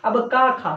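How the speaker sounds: का and खा voiced from the throat; throat sounds demo. Shown as a demonstration. Teacher demonstrating का, खा from the throat. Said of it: "तो कंठ से बोलते हैं".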